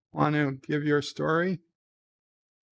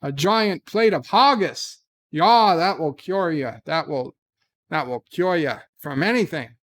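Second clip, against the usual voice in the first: lightly held mock Scottish accent, selling a family cure. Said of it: "not the accents".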